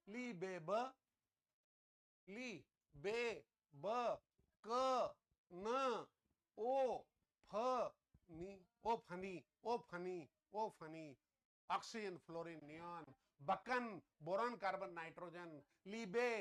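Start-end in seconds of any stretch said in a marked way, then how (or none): 2.3-11.2 syllables ली बे ब क न ओ फ नी said slowly one by one; spelling out the code. Shown as a demonstration. Teacher sounding out the memory code syllable by syllable. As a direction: sound out ली, बे, ब, क, न, ओ, फ, नी syllable by syllable, then ओ फनी as a chant. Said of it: "code ऐसे ही उच्चारण के हिसाब से बना दिया".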